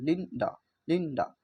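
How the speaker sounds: लिंडा with a quick, short final आ; short final vowel. Shown as a demonstration. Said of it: "बहुत जल्दी से हो रहा है".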